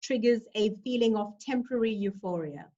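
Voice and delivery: poem reading. Acted. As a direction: read it like a farewell poem, unhurried. Reads her own poem aloud.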